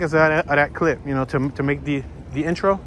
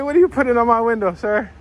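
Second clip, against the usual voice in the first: indignant car owner; 7 semitones higher than usual. Retold or imitated. Acting out watching car owners.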